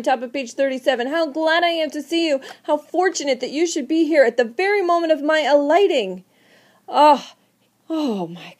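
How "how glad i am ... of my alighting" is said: lightly raised happy friend voice; glad Henry. Acted. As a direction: read the friend's cheer with bright lift. Reading Henry's greeting.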